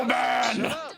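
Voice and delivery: loud angry shut up; shouting. Real, not acted. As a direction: yell it back. Yelled retort.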